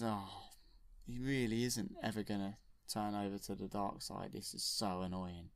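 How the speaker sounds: a lightly voiced, annoyed old baddie; grumbling Emperor. The Emperor moaning that Luke won't turn, low and sulky.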